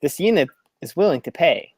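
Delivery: flat third-person robot voice; level and mechanical. Acted. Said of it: "stealthy robotic voice".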